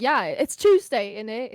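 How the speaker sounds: put-on playful British accent, drawn-out Tuesday; mock British accent. Replying to British friends in kind, mock British accent. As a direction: echo a British friend, stretching the word. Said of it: "a bunch of British friends".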